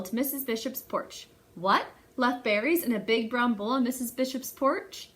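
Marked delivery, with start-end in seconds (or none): 1.5-5.1 mock shock. Reader feigning shock to young listeners, surprised. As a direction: act astonished for the kids.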